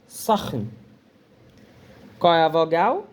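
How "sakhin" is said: Sakhin repeated lower and softer, kh from the throat; Arabic word Sakhin. Shown as a demonstration. Teacher repeats Arabic Sakhin to the class, careful pronunciation. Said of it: "Como é que se escreve quente em árabe?".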